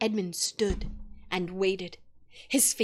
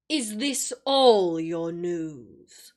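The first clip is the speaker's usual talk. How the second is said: cruel witch; 4 semitones lower, 5 dB louder, much slower than usual. A narrator's reading. Cruel smile before speaking.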